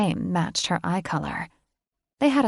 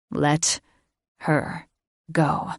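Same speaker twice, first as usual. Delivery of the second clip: said evenly; 3 semitones lower, much slower than usual. Acted. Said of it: "he said evenly".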